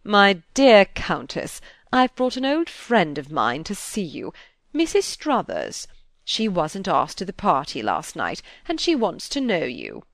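put-on an affable old aristocrat making introductions; old duke. A narrator's reading. The Duke presenting his companion to the Countess, lightly voiced and unhurried.

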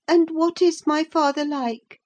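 put-on high childish voice, enquiring; a boy asking about his new home; curious child. A narrator's reading. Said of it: "he asked".

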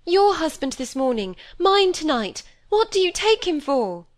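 indignant outburst. A narrator's reading. Molly rebukes Cynthia over Roger, indignant and loud. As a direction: fling the words back at her. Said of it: "crimson with shame and indignation".

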